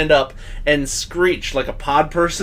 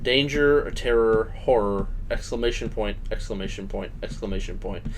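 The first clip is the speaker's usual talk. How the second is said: mock trailer words; 8 semitones lower, 8 dB quieter than usual. Mock trailer title, fading.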